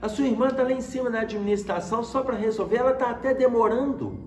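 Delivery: high-pitched, puzzled retelling of dad; indignant father. Retold or imitated. Dad to son at the hospital, indignant. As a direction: imitate a dad protesting, pitched well up. Pai surpreso ao ver o filho.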